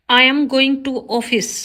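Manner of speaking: slow, careful read of the wrong sentence; slow teacher dictation. Shown as a demonstration. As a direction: spell it out word by word for the class. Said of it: "wrong है".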